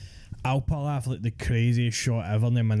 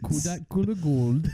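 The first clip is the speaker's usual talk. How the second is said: put-on higher Geordie accent on Kodak Colour Gold; mock Geordie accent; 4 semitones higher than usual. Friend showing how a Geordie says it, mock Geordie accent. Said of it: "you're meant to say Kodak Colour Gold".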